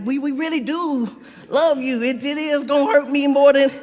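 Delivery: mock reassuring while laughing. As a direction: play it syrupy and crack up.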